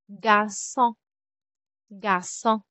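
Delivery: French "garçon" with ç as a soft s; soft S cedilla. Shown as a demonstration. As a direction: say "garçon" the French way, s sound and nasal ending. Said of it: "sound nito is soft letter S".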